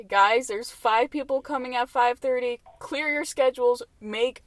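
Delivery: hammed-up alert to everyone; mock urgent warning. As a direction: warn the whole restaurant, playfully overblown. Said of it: "just warn everyone in the restaurant".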